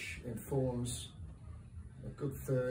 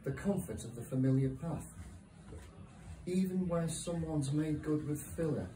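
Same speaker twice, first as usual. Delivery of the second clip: measured poetry recital with long pauses between lines; poem reading. Acted. Poet reads a short poem to a live audience, measured recital. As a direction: read it line by line, letting each hang.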